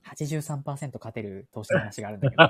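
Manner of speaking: loud, chummy recruiter, laughing; scammy recruiter. Acted. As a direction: lure the mark sweetly. Continues the acted recruiter.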